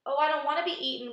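high, loud, hurried wail; loud, panicky earthworm's wail. A narrator's reading. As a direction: wail it in dread. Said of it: "wailed the earthworm".

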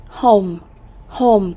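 "home" with a clear long O; isolated, careful "home" showing the O sound; O vowel. Shown as a demonstration. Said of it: "cũng là âm O".

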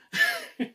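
short high laugh; a quick, high-pitched burst of laughter. Acted. Nervous host chatting with friend.

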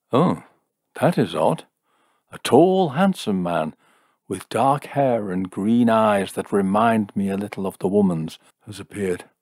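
theatrical surprise, then portentous vision; fortune-telling seer. Acted. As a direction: marvel at what appears in the crystal.

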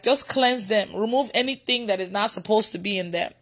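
softly retold prayer; silent prayer retold. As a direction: murmur the prayer as if inwardly. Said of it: "I said it in my heart".

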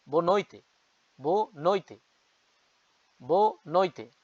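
"বো নইতে" said as bo noite, falling each time; repeated teaching demo of "বো নইতে"; European Portuguese pronunciation. Shown as a demonstration. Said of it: "European Portuguese স্টাইলে আমি বললাম উচ্চারণ".

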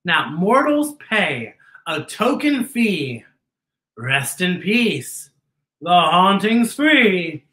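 slow, deliberate rhyming read; slow spooky storybook rhyme; spooky verse reading. Acted. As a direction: savor each line like a ghost host.

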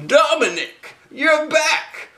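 high, delighted voice breaking into laughter; another owner greeting. Acted. A new owner greeting the moose, high and giggly. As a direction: gush over the returning moose, laughing.

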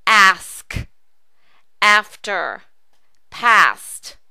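"ask", "after", "past" with a long open ah; teacher drilling the ah in "ask", "after", "past"; long ah vowel. Shown as a demonstration. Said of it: "That ah sound".

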